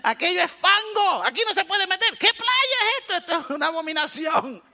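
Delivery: disgusted. Retold or imitated. Disgust at muddy beach.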